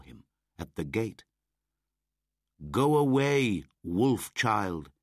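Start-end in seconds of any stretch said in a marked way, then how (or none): 2.7-4.9 high, loud crowd jeer; shouted. A narrator's reading. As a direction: drive the wolf child away. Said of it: "they shouted".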